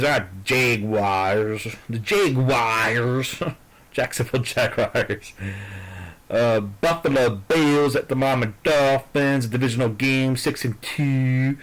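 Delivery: slow, drawn-out goofy voice, lightly done; silly put-on voice. Vlogger hamming up his picks in a slow goofy put-on voice. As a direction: stretch the team names in a mock dopey voice. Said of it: "Stop talking like an asshole".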